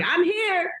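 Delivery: very high, sing-out mock entrance; imitated announcing arrival. Woman barging into a Zoom training, high imitated announcement. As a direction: call it out high, imitating her. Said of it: "she was like".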